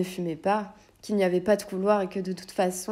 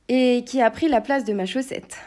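mild mock cry; 4 semitones higher, 6 dB louder than usual. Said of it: "s'écria le chevalier".

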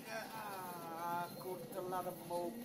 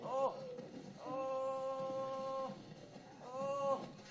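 startled shouts; 7 semitones higher, 4 dB louder, much slower than usual. Real, not acted. Startled by attacking dinosaurs.

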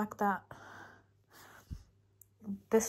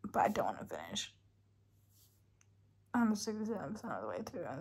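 real late-night whisper; 4 dB quieter, faster than usual. Real, not acted. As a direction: whisper it quickly at bedtime.

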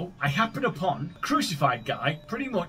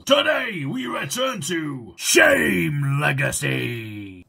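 dramatic announcer; 3 semitones lower, 4 dB louder, much slower than usual. Acted. Announcing the game title.

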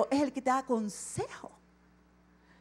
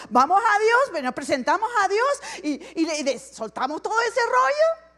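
higher and louder with a laugh; amused, raised voice mocking our own habits; 7 semitones higher, 8 dB louder than usual. Real, not acted. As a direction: laugh at how we unload on God. Preacher jokes about venting to God.

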